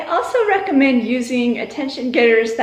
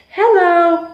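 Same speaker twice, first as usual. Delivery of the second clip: high, louder sing-song hello; bright classroom greeting call; teacher call; 6 semitones higher, 5 dB louder than usual. Shown as a demonstration. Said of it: "When I say hello, you say hi".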